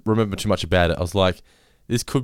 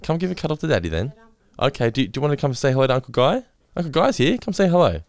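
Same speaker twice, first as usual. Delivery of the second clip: soothing parent voice; 3 semitones higher than usual. Real, not acted. Comforting hurt toddler.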